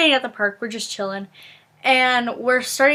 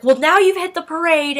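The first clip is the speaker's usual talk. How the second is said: higher-pitched mock rant; hammed-up fretting, pitched up; retold freaking out; 5 semitones higher, 4 dB louder than usual. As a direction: imitate an upset sister's complaint, trailing into blahs. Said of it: "freaking out".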